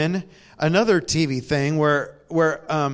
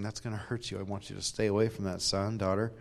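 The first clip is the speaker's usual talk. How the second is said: much softer, gentle caution from a loving father; tender fatherly warning; 5 semitones lower, 9 dB quieter than usual. Pretend. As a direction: protect your child, softly. God voiced speaking tenderly.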